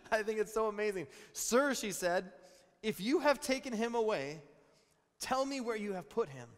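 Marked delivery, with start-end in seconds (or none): 1.3-1.7 high, loud plea; pleading Mary. Acted. Preacher voicing Mary begging the gardener, high and loud. 2.8-6.5 high, loud plea; pleading Mary. Acted. Preacher voicing Mary begging the gardener, high and loud.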